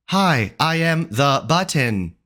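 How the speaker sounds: slow, smooth assistant voice; Siri-like voice. Shown as a demonstration. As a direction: say it like a calm voice assistant. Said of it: "Even Siri is better".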